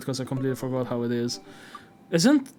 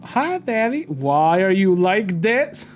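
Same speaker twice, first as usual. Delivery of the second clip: exasperated whine; 4 semitones higher, 5 dB louder, much slower than usual. Real, not acted. Streamer reacting to dad game.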